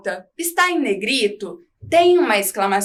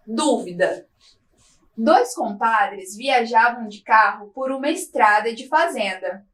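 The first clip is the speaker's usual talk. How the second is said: reading a joke aloud. Shown as a demonstration. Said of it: "Vou fazer a leitura desse texto".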